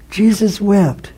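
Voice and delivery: soft whispered echo of the verse; whispered again. Acted. Pastor repeats the verse to the congregation, whispering. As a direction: let the words fall in a whisper.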